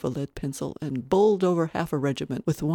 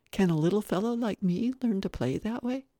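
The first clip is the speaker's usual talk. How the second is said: put-on higher childlike plea; hopeful little boy; 5 semitones higher than usual. Little boy asking to learn to play, hopeful. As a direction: ask hopefully as a small child.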